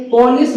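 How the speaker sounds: पुलिस opening on "po", as PO-lis; wrong pronunciation. Shown as a demonstration. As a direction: round the first vowel of पुलिस to "o". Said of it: "गलत है".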